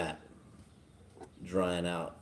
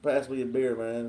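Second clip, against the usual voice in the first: mumbling Boomhauer impression. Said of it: "it's like".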